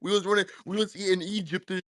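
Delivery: imitated Black American accent; cosplay a Black American accent; put-on Black American accent. Caller trolling the host about Egypt, put-on Black American accent. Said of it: "you're trying to cosplay with our accent".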